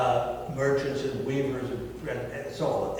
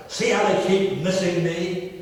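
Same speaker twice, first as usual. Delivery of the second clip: mock shout; 5 semitones higher, 3 dB louder than usual. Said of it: "he shouted".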